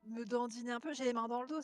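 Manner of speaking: rough, raspy character voice. Pretend. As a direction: rasp it out like a worn-out survivor. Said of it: "je vais faire la voix rauque".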